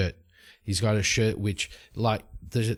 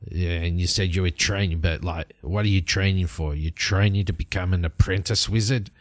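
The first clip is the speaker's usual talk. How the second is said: grumpy fellow; 4 semitones lower than usual. Acted. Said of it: "that grumpy fellow over there".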